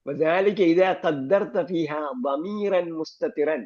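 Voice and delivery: slow textbook dictation of the rule; slow reading aloud. Shown as a demonstration. Teacher reading the grammar text to the class, slowly. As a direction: read each Arabic word slowly and deliberately.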